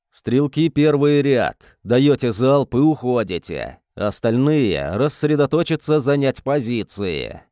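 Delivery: firm barked battle orders; loud command. Acted. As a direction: command the riflemen loudly. Esteban commands shooters before battle.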